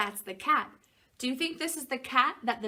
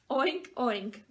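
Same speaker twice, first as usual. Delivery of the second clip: a louder grunted oink; grunting pig; 2 semitones higher, 4 dB louder than usual. Acted. Parent reading the story line, pig grunts louder. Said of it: "grunted the pig".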